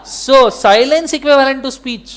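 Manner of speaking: very slow, word by word legal rule; slow dictation. Shown as a demonstration. Teacher dictating the law to students, very slow. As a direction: dictate it slowly for notes.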